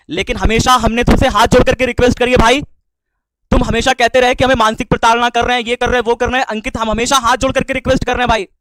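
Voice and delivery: impassioned remonstrance; aggrieved pleading. Real, not acted. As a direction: protest with hurt, voice pushed up. Hurt protest to estranged colleague.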